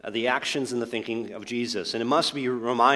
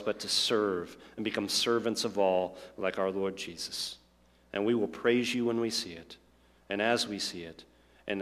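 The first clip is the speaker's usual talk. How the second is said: prayer; 2 semitones lower than usual. Acted. Pastor praying over congregation.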